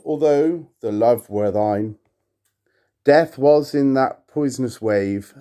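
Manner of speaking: measured, solemn recitation; poem reading. Acted. To viewers, reading Poe aloud, solemn poetic recitation. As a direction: intone the verse with gravity. Reads The Lake.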